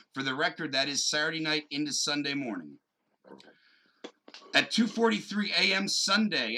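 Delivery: authoritative seventies-style newsman read; newscaster voice. Pretend. Podcaster reading a breaking kidnapping story to his co-host, newscaster voice. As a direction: read it out like an old TV news anchor. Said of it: "break out my newscaster voice".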